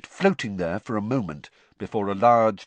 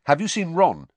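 louder, higher, cutting her off; abrupt interruption; 10 semitones higher, 8 dB louder than usual. A narrator's reading. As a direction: break in sharply. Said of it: "Harry interrupted".

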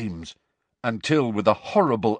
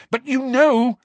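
high, loud shouted accusation; accusing shout; 6 dB louder than usual. Acted. Harry shouts at the evasive elf, accusingly. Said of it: "shouted Harry".

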